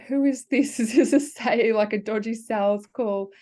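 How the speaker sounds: half-laughing, wary of a sales call; mock suspicious caller check; puzzled suspicion.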